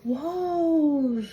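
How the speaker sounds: loud, high startled whoa; surprised whoa. A narrator's reading. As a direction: burst out in surprise. Whale spits Stanley out.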